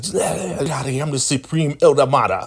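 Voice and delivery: squeaky high-pitched scolding elder; high mocking elder voice. Recapping the show, mimicking the elder's high scolding voice. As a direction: play the bossy elder woman in a high squeak.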